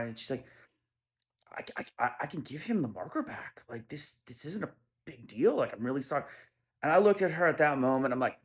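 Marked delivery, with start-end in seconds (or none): 1.5-6.2 teary apology. Retold or imitated. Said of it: "She gets a little tear in her eye".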